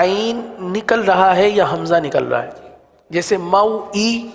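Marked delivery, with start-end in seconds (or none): 3.4-4.3 موئی said with a plain glottal hamza, no throat sound; موئی with a clean hamza stop; wrong hamza sound. Shown as a demonstration. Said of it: "یہ تو خالص حمزہ ہے".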